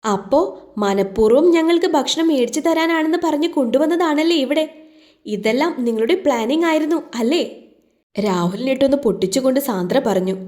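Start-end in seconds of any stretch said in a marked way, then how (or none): 0.0-7.4 higher, indignant accusation; girl accusing Rahul of planning it, indignant. A narrator's reading. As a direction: confront him with the trick. Sandra confronts Rahul.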